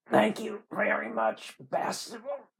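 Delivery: high, drawling sick man; weak Southern drawl; dying Southern man. Acted. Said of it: "like a dying Southern man".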